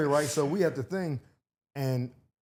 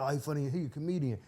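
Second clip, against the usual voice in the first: softly voiced aside, retelling a whisper; imitated whispering; 5 dB quieter than usual. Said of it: "Whispering to the dude".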